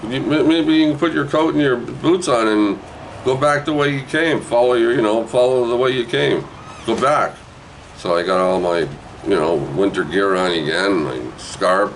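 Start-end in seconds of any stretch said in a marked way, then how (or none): 0.1-7.3 much higher, gentle mother voice; mom advising. Retold or imitated. Mother telling her son to go back, in a high coaxing voice. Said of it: "Mom goes".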